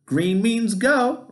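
high, slow, eager howl. Acted. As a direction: belt it out like a rallying cry. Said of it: "Rocky howled".

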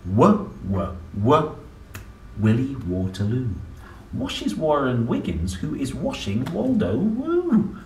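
rhythmic picture-book reading of the tongue twister; reading to children. Acted. Parent reading the W page aloud, rhythmic. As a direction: bounce through the rhyme for a child.

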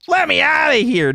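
high, urgent cry to escape; panicked plea. Real, not acted. Trapped in game with monster.

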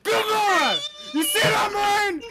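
triumphant shouting. Real, not acted. Boasting after solo kill.

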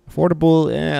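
high, loud incredulous "Affordable"; "Affordable" jumping up high and loud, questioning the claim; sceptical echo. Real, not acted.

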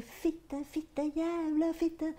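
high, drawn-out mock scream of a swearing boy; imitating a boy screaming curses; retold screaming. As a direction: yell the curses like an angry teen, stretched slow. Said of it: "han skriker".

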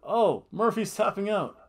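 mock play-by-play excitement; Michael Cole. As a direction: call it like a ringside announcer. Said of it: "so Michael Cole goes".

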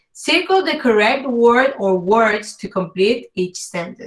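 slow, careful English read-out; slow reading aloud. Shown as a demonstration. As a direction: read the instruction slowly for learners. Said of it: "la primera dice".

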